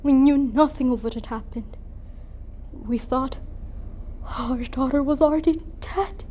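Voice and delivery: grave, measured recollection with heavy pauses; solemn dramatic monologue. Acted. Mother recalls being sent for to the tomb, solemn. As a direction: let each phrase settle, softening at the end.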